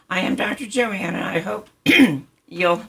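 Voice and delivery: a little hoarse and scratchy. Real, not acted. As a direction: speak through a scratchy, hoarse throat. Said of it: "my little scratchy voice".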